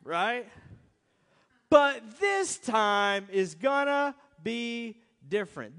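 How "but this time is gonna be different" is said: louder, slow, drawn-out insistence; loud insistent promise. Shown as a demonstration. Preacher mocking the congregation's promise, loud. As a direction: make but this time sound certain. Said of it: "and then we say this".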